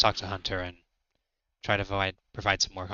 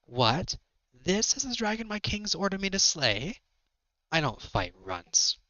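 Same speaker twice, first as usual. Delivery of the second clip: Nightmare; 8 semitones higher than usual. Acted. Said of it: "Nightmare turns to face him".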